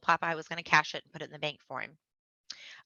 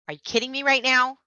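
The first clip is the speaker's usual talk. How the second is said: incredulous retort; 8 semitones higher, 6 dB louder than usual. Retold or imitated. Arguing with father.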